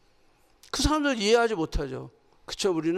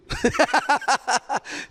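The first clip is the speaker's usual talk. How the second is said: real laughter. Real, not acted. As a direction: burst of amused laughing. Laughs as congregation half-squats. (터져 나오는 웃음)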